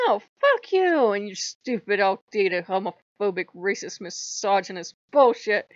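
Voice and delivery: loud, slowed fuck you, then a list spat out; heated loud comeback; angry retort. Retold or imitated. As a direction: hurl the insults one by one. Retorting angrily to God.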